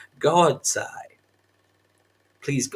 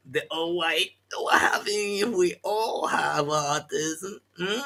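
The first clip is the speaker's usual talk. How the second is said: whisper; 5 semitones higher, slower than usual. Acted. Mocking whispered taunt.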